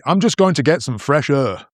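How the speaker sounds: 'air' pronounced like 'er'; northern English 'air', rhyming with 'her'; northern vowel. Retold or imitated. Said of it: "I would say er for air".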